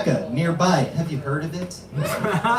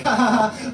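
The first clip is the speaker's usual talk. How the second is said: higher-pitched mock "ha ha ha"; imitated gleeful laugh; 5 semitones higher than usual. Niece seeing uncle enjoy her roast, mock laugh. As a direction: act out a child's egged-on laugh. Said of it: "I started laughing. She could see".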